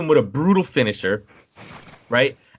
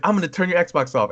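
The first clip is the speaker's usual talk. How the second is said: lightly voiced parent, higher pitch; imitated threatening mom; 7 semitones higher than usual. Mom threatening to cut off the game, mock stern. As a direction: warn in a hint of a mom voice. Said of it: "she's like".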